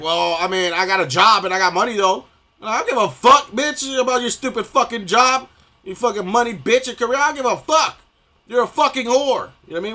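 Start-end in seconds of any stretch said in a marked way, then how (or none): 0.0-2.2 mocking women. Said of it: "you're like". 2.6-9.5 higher and much louder, yelling every line; furious shout. Real, not acted. Ranting at women about their jobs, furious yelling.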